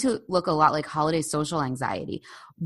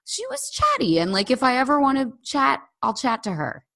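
a lightly higher, breezy stranger's voice; imagined strangers; 6 semitones higher than usual. Retold or imitated. Strangers at home talking about her, lightly voiced and breezy. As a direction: toss it off as a kindly passer-by.

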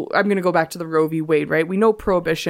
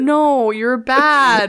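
laughing; 7 semitones higher, 6 dB louder, much slower than usual. Real, not acted. Teasing banter, laughing.

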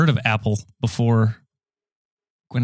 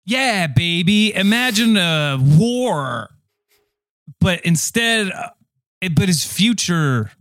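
slow, high, badly faked impression; drawn-out, off-target impression; Sean Connery; 7 semitones higher, much slower than usual. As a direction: stretch the words out in a swaggering mock celebrity voice. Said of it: "Now, Sean Connery".

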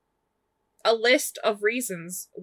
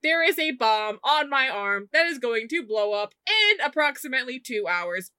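lightly voiced calm warning; a hint of deadpan urgency; matter-of-fact Karma; 4 semitones higher than usual. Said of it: "and says".

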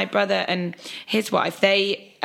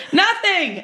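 high loud innocent denial; 11 semitones higher, 4 dB louder than usual. Retold or imitated. Caught father denies, retold.

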